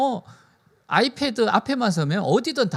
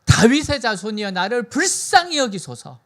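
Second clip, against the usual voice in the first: raised, pleading cry for mercy; imitated crying out; 3 semitones higher, 4 dB louder than usual. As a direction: call out loudly, imitating a blind man begging. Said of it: "그가 뭐라고 부르짖는가 하면은". (부르짖는 흉내로 크게 호소)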